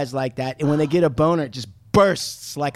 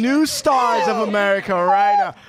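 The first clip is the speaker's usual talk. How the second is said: slightly raised, hammed-up show introduction; mock announcer; 4 semitones higher than usual. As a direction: present them like a ring announcer. Mock announcer introducing the new stars.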